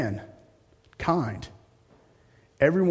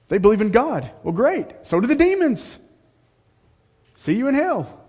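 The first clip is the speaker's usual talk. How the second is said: mocking sarcasm; 9 semitones higher, 5 dB louder than usual. Preacher mocks false religions.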